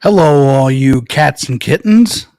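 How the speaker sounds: big, slow, booming hello; loud announcer greeting. Acted. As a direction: boom it out like a host. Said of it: "I just would have preferred if I couldn't with that".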